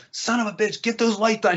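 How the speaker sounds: high-pitched mock yell; retold screaming. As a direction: imitate a director screaming and cussing. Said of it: "He starts screaming and cussing".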